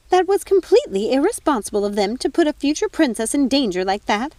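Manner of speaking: a self-righteous prosecutor listing crimes; prosecuting fairy godmother. Acted. Godmother continues the charges.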